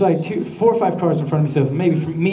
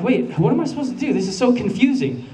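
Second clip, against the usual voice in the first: panicky; 4 semitones higher than usual. Retold or imitated. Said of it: "I'm just freaking out".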